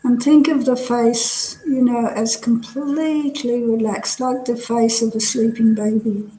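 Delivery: measured body-scan guidance with long pauses; guided meditation. Real, not acted. Teacher leading students through a relaxing body scan, guided meditation. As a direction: guide them gently from one body part to the next.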